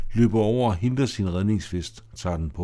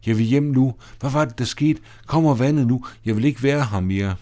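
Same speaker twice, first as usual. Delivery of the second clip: panicky pleading; 3 semitones higher, 3 dB louder than usual. Acted. Johanne panics in the storm.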